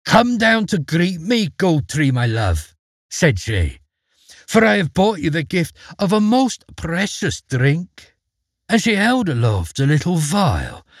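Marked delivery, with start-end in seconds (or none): 0.0-2.7 high, joyful calling out; loud joyful call. A narrator's reading. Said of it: "called out in a loud but joyful voice". 4.5-8.1 joyful call. A narrator's reading. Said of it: "called out in a loud but joyful voice".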